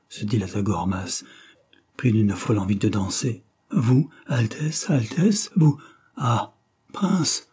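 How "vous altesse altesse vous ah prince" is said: slow, rising higher with delight; beaming joy. Acted. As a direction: radiate relief at seeing the prince. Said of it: "s'irradia l'ambassadeur".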